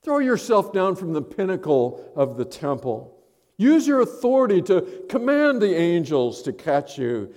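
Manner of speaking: a hint of a tempting Satan. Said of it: "Satan came to him".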